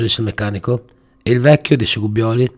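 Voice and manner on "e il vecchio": worried question. Acted. Gubbioli asks.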